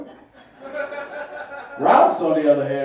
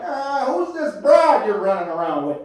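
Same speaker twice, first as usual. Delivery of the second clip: Uncle Mike voice; 6 semitones higher, 3 dB louder than usual. Retold or imitated. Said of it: "Uncle Mike quote".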